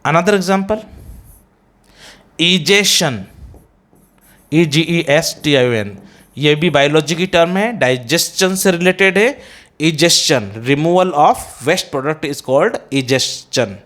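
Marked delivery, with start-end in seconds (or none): 2.4-3.2 इजेशन ending in "shun"; wrong pronunciation. Shown as a demonstration. Teacher introducing the next example, mispronounced. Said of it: "egestion is a wrong pronunciation". 9.8-10.5 इजेशन with "s-chun" ending; correct pronunciation. Shown as a demonstration. Teacher defining the term, correctly pronounced. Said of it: "is the correct pronunciation".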